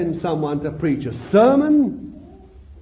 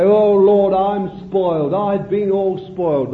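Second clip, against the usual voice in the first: pleading believer; 3 dB louder than usual. Retold or imitated. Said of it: "You say".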